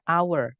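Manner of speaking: "hour" said like "our", no H; silent H. Shown as a demonstration. Teacher explaining the reading to a student, "hour" with silent H. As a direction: start "hour" on the vowel, H left silent. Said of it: "Karena bacanya".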